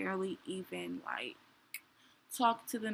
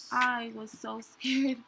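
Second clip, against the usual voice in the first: laughing; 2 semitones higher, 7 dB louder, slower than usual. Real, not acted. Retelling fear during labour.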